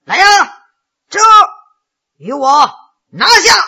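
commanding, rising to a loud high finish; barked command. Acted. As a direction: call the guards to seize him, building to a shout. Lord orders his guards to seize rebel.

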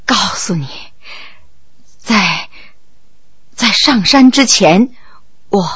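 halting, fading, out of breath; broken faint speech. Acted. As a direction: gasp out the words haltingly. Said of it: "断断续续地说".

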